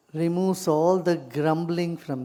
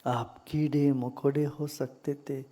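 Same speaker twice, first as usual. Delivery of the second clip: calm, measured meditation voice with long silences; guided meditation; faster than usual. Real, not acted. Teacher guiding meditators into gratitude for body and breath, calm guided meditation. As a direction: guide them gently inward, leaving long pauses.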